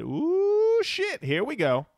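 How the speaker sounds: high swooping ooh, then slow groan; hammed-up dread reading a comment; mock dismayed ooh. Reading listener comment aloud.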